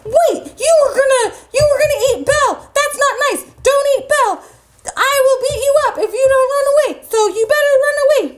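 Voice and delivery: scolding. Acted. Beast scolds and threatens wolves.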